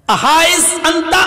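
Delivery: high, drawn-out retold shout; calling out. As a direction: call after someone who is walking away. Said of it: "پھر کہا، آواز دی".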